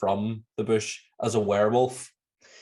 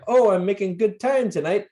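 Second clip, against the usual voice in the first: imitating Ned; 10 semitones higher, 5 dB louder than usual. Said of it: "he's like".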